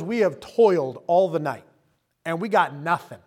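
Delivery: tired fisherman fed up and laughing it off; frustrated. Retold or imitated. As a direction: vent the frustration of a wasted night. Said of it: "So I'm tired and I'm frustrated".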